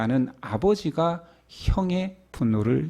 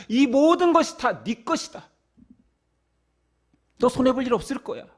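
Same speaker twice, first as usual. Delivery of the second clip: reassuring father; 7 semitones higher than usual. Retold or imitated. Father reassures older son.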